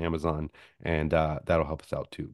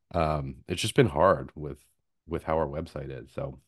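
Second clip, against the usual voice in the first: tired, worn-out voice; voice giving out; 4 semitones lower, 3 dB quieter than usual. Real, not acted. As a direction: voice fading from long talking. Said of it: "my voice is giving out".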